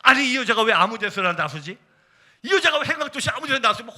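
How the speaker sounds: acting out his own annoyance; retold anger. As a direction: grumble in exasperation at a spouse. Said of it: "화가 났습니다".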